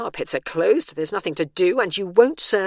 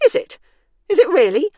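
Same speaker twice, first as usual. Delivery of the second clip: higher, louder challenge; defiant retort; 11 semitones higher, 10 dB louder than usual. A narrator's reading. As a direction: throw it back at him.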